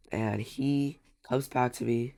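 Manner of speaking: congested, stuffy nose; blocked nose. Real, not acted. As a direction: talk through a head cold. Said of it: "I'm a little bit congested right now".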